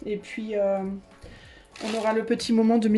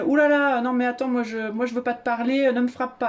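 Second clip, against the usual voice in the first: mock frightened France; 2 semitones higher than usual. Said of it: "elle nous dit".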